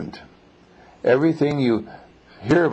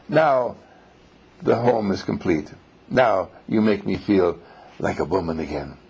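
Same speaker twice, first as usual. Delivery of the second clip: lower, gently settling loving voice; understated acted tenderness; mildly tender wife; 4 semitones lower than usual. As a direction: lightly act a contented wife, softening at times. Wife greets husband tenderly in story.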